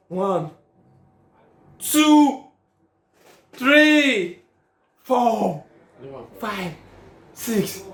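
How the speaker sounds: will each number to land; tense excited count. Real, not acted. Gambler counting goals on his bet, tense excited cry.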